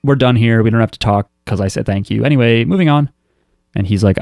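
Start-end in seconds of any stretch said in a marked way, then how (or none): 0.0-3.1 comically brusque. Retold or imitated. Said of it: "she sort of comically is like".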